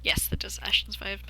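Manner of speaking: hushed whisper. Real, not acted. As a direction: whisper it aside. Quiet aside.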